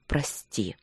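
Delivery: soft broken whisper; whispered please forgive me. A narrator's reading. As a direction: barely breathe the word. Begging forgiveness, embracing her.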